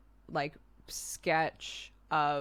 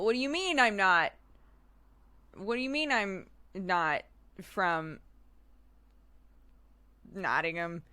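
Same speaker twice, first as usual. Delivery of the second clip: attempted English accent; 2 semitones higher than usual. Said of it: "Even if I tried to be like".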